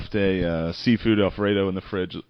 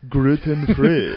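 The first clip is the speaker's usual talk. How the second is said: slow, louder mock Asian accent; 5 semitones higher, 5 dB louder, much slower than usual. Co-host mimicking the prank call voice, mock Asian accent. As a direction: imitate a friend's bad Asian accent, dragged out. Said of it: "that Asian voice, dude".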